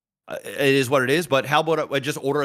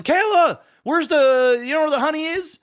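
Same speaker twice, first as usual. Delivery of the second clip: high, raised call across the house; louder, higher mock holler; retold yelling; 10 semitones higher, 4 dB louder than usual. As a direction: call out for help finding something, acting it out. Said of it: "I'm yelling".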